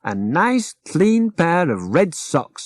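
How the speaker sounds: high and slow, satisfied; slow, contented rag doll; pleased Jim. Acted.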